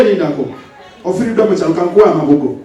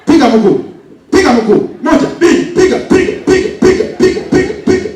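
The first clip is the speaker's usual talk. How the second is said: drill commands; 4 semitones higher than usual. Acted.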